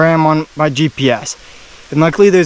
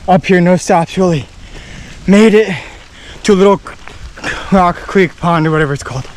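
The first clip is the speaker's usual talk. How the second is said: panting after hiking fast; breathless, words between breaths. Real, not acted. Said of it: "Sorry, I'm out of breath".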